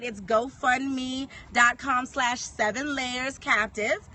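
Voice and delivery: slow, careful spelling out; over enunciating. Shown as a demonstration. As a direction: say each part slowly. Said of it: "Let me, let me say that slowly".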